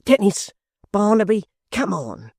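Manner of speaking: rally them toward the door; calling out. A narrator's reading. Hugh calls his friends to follow him, loud call. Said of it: "cried Hugh".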